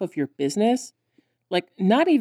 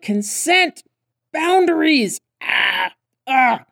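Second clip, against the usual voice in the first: high, loud mock alarm; outraged exclaiming; 8 semitones higher, 3 dB louder, much slower than usual. Viewer protests at Riot grabbing her, outraged exclaiming. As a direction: cry out in exaggerated protest.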